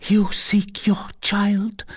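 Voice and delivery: slow, high, whispered voice; faltering. A narrator's reading. Broken girl to the recluse, faltering whisper. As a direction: whisper it haltingly, as if exhausted. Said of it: "she faltered".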